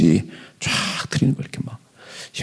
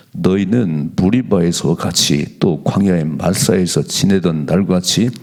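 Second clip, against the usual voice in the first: slow, lower, measured reading of the verse; scripture reading; 3 semitones lower, slower than usual. Acted. Pastor reading Psalm 95 to the church, slow and solemn. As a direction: pastor reads the psalm slowly to the congregation, solemn.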